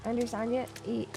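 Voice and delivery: lilting attempt at an Irish accent. Streamer explaining the lilt to chat, in a practised Irish accent. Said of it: "about the lilt".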